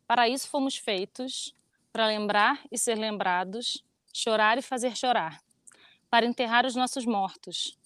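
slow, solemn poetry reading; poem recitation. Acted. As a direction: recite it gravely and gently. (recitando poema devagar)

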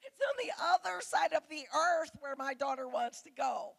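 a mother suddenly realizing how far away; startled realization. Retold or imitated. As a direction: hit it like it just dawned on you. Sudden realization about daughter's trip.

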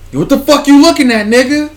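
put-on loud, high kid yelling; angry kid shout. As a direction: challenge another kid to fight. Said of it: "All you heard was one kid".

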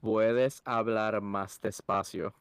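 slow and deliberate, each word spaced; slow speech. Shown as a demonstration. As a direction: spell it out slowly for learners. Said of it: "I even spoke slowly".

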